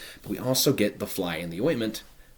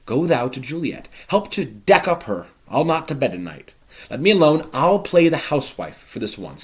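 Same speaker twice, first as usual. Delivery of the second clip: loud, high, busy host; bustling Capulet; 4 semitones higher, 5 dB louder than usual. Acted. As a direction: take charge with gusto. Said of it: "Capulet says".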